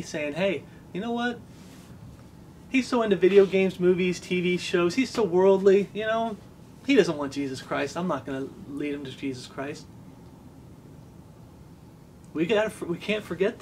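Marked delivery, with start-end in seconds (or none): 0.3-9.9 dismissive judging brother. Retold or imitated. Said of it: "didn't have that attitude with me".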